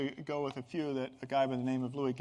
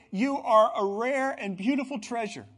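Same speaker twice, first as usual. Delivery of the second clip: higher and louder, proclaimed with fervour; rising preacher's proclamation of worth; God's proclamation; 6 semitones higher, 7 dB louder than usual. Acted. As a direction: declare it like a blessing from above. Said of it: "He's gonna say".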